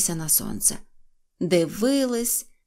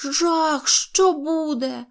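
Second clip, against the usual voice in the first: higher, drawn-out cry of alarm; mock alarm; 7 semitones higher, much slower than usual. Neznayko scaring his friends, hammed-up alarm. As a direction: paint the horror, slowly. Neznayko fears falling sun chunk.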